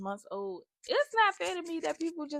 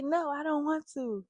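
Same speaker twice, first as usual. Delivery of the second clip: put-on higher little-kid refusal; lightly voiced small child; imitating toddler daughter; 5 semitones higher than usual. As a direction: mimic a toddler saying no. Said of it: "if she don't want something, she say".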